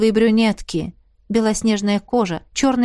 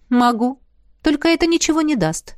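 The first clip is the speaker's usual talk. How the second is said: ordinary delivery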